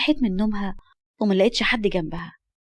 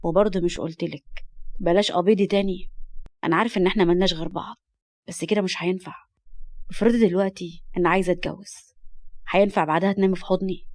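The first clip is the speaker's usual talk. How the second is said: lightly lowered, gentle man's voice; tender; 2 semitones lower than usual. Acted. Man gently refusing the girl, tender. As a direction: explain firmly but with a touch of tenderness. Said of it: "مسح على شعرها بحنان وقال".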